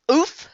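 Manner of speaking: high, short "oof"; a sudden oof of impact; grunt on impact. Acted. Froggy falling flat on his face, grunt on impact.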